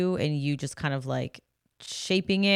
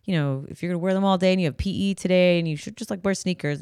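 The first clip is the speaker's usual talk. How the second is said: pleading parent; 3 semitones higher than usual. Retold or imitated. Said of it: "we're like".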